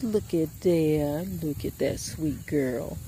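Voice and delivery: slow, soft adoring coo; fond cooing. Real, not acted. Cooing over the goat.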